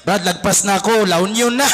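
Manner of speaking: low-voiced mock complaint; deadpan low plea; hapless passenger. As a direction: drop low to play the overlooked passenger. Acted passenger past their stop.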